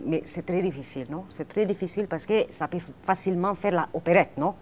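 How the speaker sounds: loud, hammed-up Spanish accent on French. Shown as a demonstration. Showing off her Spanish accent to the host, loud, hammed-up Spanish accent. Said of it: "je peux prendre un peu l'accent espagnol".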